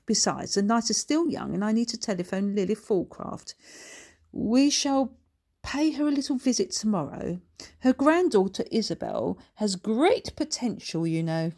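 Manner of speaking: a lady of the manor announcing a visit; lightly voiced genteel aristocrat; Lady Ludroth.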